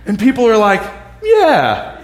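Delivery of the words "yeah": high, loud squawky parrot, dragged out; storybook parrot voice. Retold or imitated. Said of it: "the voice I use of the parrot".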